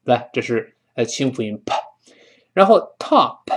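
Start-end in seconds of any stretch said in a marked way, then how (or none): 2.5-3.4 whispered top. Shown as a demonstration.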